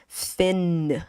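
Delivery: fin with the final N fully sounded; final N pronounced. Shown as a demonstration. Teacher showing students the English ending, final N sounded in fin. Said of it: "we will pronounce these letters".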